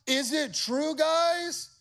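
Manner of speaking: high, rising incredulous king; king putting them on blast. Acted. Nebuchadnezzar putting the three on blast. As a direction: confront them in disbelief. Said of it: "He's putting them on blast".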